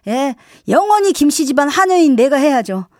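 mock-servile sarcasm; exaggeratedly deferential, lightly needling; sarcastic mother. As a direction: play the put-upon maid, with a barb. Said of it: "비꼬면 더 힘들어요".

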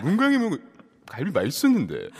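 Lee Sun-kyun. Retold or imitated. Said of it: "시옷 발음이 잘 안 되시잖아요".

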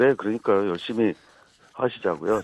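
hoarse, worn-out campaign voice. Real, not acted. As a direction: voice gone from campaigning. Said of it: "지금 목이 다 쉬어서".

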